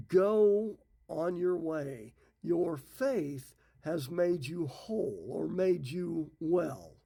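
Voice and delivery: slow, weighty pronouncement; gently proclaimed healing words; slow solemn blessing. Retold or imitated. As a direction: lay each word down slowly like a blessing.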